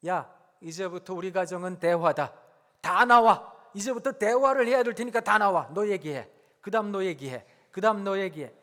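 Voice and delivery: loud commanding parent rounding up the family; mock domineering dad yelling; bossy parent shout. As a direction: bark orders at the kids to come out. Parent calling family to talk.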